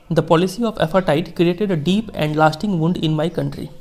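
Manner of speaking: slow, measured reading of a famous speech; formal speech reading. Acted. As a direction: read each phrase slowly, like quoting a statesman. Teacher reads Mandela speech slowly. (धीमा, गंभीर भाषण पाठ)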